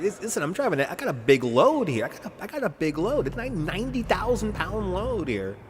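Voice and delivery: high-pitched mock trucker protest; hammed-up high trucker voice. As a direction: plead the big load in a high put-on voice. Acting the protesting truck driver.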